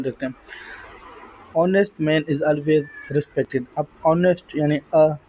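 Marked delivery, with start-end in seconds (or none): 1.6-3.6 each word of uniform on Wednesday drawn out; slow dictation. Shown as a demonstration. Teacher reading the example to students, slowly. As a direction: spell it out slowly for the class.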